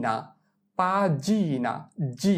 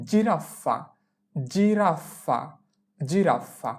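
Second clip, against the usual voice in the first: drawn-out demo; much slower than usual. Shown as a demonstration. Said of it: "এইটা হবে হচ্ছে".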